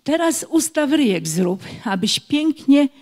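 measured, rhythmic rhyme with small pauses; children's poem reading. Acted. Teacher reads a speech-exercise rhyme, measured poem recitation. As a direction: recite an instructional rhyme line by line.

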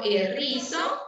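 errizo with a strong trilled rr; wrong rolled r. Shown as a demonstration. Teacher shows children the wrong strong r in errizo. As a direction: roll the rr hard in errizo. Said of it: "no errizo".

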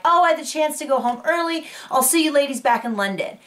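airy, put-on goodbye; breezy mock text. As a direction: toss off a casual goodbye as someone else. Acted breezy text message goodbye.

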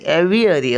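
एव्हिअरी said with a plain v, no h; एव्हिअरी as English "aviary", no h; no h sound. Shown as a demonstration. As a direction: say एव्हिअरी as "eh-vee-uh-ree" with no breathy h. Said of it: "त्यांचा हचा उच्चार नाही".

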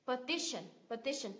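"Petition" stressed on TI; weak first and last syllable in "Petition"; stress on second syllable. Shown as a demonstration. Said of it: "Nhấn vào tiếp thứ hai".

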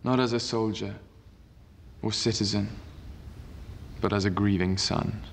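formal senate oration; roman orator. Acted. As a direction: address the senators with gravity. Octavian addresses the senate.

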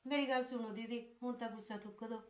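quiet, conciliatory coaxing; soft placating. Acted. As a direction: gently talk down an angry relative, keeping it soft. Sister-in-law placates angry visitor. (ਨਰਮ ਤੇ ਧੀਮੀ ਆਵਾਜ਼ ਵਿੱਚ ਮਨਾਉਣਾ)

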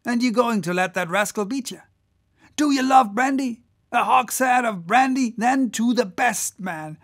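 high, loud goading of the rowers; rousing cry. Acted. Whaler to his crew racing the German boat, rousing cry. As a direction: whip up the crew, swelling to shouts. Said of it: "cried Stubb to his crew".

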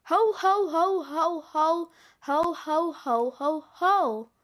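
quick string of Santa ho-hos; lightly voiced chorus of jolly Santas; a hint of belly laugh. Many Santas ho-hoing in turn.

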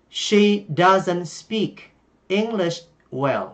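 "doesn't" said slowly as "dazən"; slow contracted form. Shown as a demonstration. Teacher demonstrating the shortened version to learners. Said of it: "nói ngắn gọn lại".

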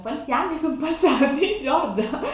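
high, incredulous question to herself. Real, not acted. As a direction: ask it in mock disbelief. Mock questions her younger self. (domanda incredula, voce alta)

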